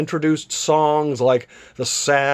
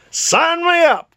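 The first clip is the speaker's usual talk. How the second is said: roared; 13 semitones higher, slower than usual. A narrator's reading. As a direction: belt it out with delight. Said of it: "Carlyle roared".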